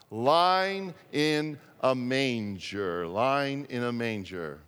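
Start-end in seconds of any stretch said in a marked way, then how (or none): 0.1-3.1 put-on drawn out for the children to follow; slow group reading. Shown as a demonstration. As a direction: read it slowly together. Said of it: "Let's try and read it together".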